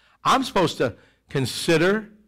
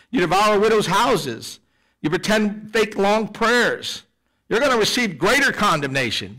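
slow, emphatic rebuke, mildly acted; measured, indignant condemnation, lightly voiced; Jesus pounding; 4 semitones higher than usual. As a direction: pound out each accusation slowly. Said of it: "he's just pounding".

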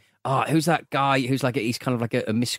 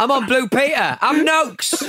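mock celebration; 7 semitones higher, slower than usual. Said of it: "punning goal celebrations".

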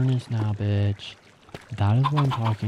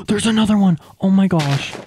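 excited squeal; 9 semitones higher, 4 dB louder, faster than usual. Real, not acted.

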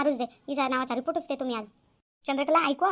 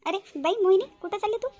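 put-on high call to a girl passing by; 6 semitones higher, 3 dB louder than usual. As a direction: call her over from a distance. Aunt calls out to passing girl.

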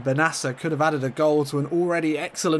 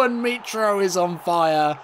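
excited; 4 semitones higher, slower than usual. Real, not acted. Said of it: "what accent I was doing that in".

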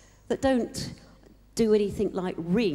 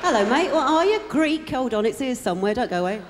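mock holiday chat-up; 3 semitones higher, 5 dB louder than usual. Chatting up a tourist abroad.

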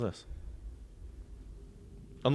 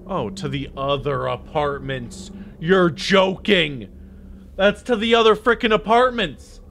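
slow then louder disbelief; incredulous; 5 semitones higher, 4 dB louder than usual. Real, not acted. Discovering more apartments, disbelieving and louder. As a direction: drag it out, then blurt in disbelief. Realising there's more building.

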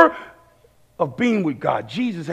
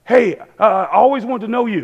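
imitated eager fan, pitched up; mildly acted excitement; excited fan; 4 semitones higher than usual. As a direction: blurt an awkward starstruck greeting. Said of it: "He was so excited".

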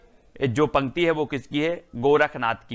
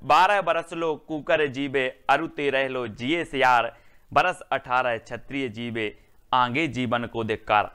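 recited verse; 2 semitones lower than usual. Shown as a demonstration. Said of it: "अगला है".

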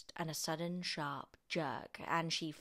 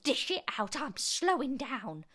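put-on raised, higher old woman's voice; demanding yell; 7 semitones higher, 5 dB louder than usual. A narrator's reading. Grandma is slowing and wants more, demanding yell. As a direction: call it out, slowing at the end. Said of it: "she yelled".

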